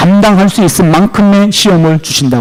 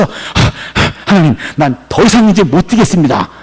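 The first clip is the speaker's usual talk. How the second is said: acted breathless gasps, then a weary plea; panting, exhausted. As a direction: pant like a boxer after twelve rounds. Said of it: "다 뛰고 헥헥거리면서".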